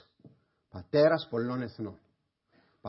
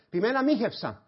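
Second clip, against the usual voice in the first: whiny excuse; 8 semitones higher than usual. Pretend. Imagined sinner's excuses.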